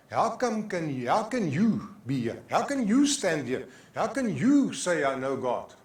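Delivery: pointed, mounting questions; accusing challenge. Acted. Preacher voices accusing questions.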